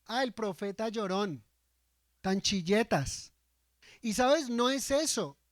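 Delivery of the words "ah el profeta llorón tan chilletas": slow, mocking sneer at the crying prophet; scornful imitation of how people say it. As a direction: drag out tan chilletas with disdain. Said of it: "hay un tono como despectivo".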